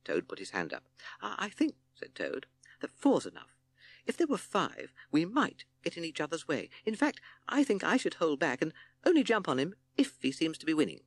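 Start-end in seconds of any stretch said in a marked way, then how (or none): 1.2-1.8 high, faltering toad voice; timid toad. A narrator's reading. Toad raising his hand to object, timid. 2.8-11.0 high toad voice making excuses; timid toad. A narrator's reading. Toad arguing to hold back from the fight, timid.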